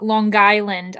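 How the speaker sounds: a hint of Long Guyland, slow; slow imitation of the local Long Island; mild New York Long Guyland; Long Island accent. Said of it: "when they say".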